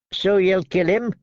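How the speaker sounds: thin sharp man mocking; Lark sneering. A narrator's reading.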